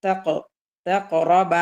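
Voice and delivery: തഖ with no breath and no delay, then തഖറബ; qalqalah. Shown as a demonstration. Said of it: "ഖൽഖലയാണ്".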